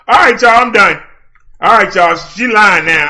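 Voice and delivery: loud sign-off. Real, not acted. Addressing chat to sign off.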